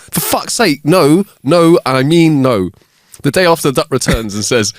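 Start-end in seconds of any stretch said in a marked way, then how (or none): 0.1-2.7 a fed-up barman shouting no, no; exasperated barman. Acted. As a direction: lose it at the duck. Barman losing temper.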